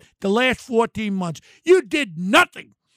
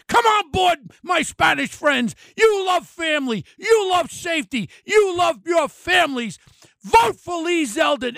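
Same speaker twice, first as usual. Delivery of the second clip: rallying shout; 6 semitones higher than usual. Real, not acted. Rallying Hispanic voters.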